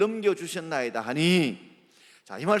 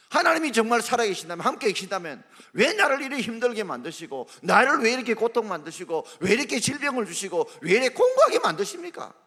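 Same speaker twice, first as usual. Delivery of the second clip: complaining to God, climbing higher line by line; a grievance that builds to a high cry, half laughing; from protest to an exasperated peak; building complaint; 6 semitones higher than usual. Acted. Voices believers' complaints to God.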